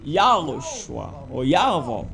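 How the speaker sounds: Yahushua or Yahweh said slowly, with open A; right pronunciation. Shown as a demonstration. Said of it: "That's the right pronunciation".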